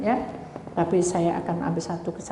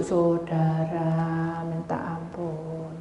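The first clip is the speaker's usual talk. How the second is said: very slow, stretched-out lament; drawn-out dismay; much slower than usual. Retold or imitated. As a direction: drag out every syllable in mock despair. Disgust on entering the toilet.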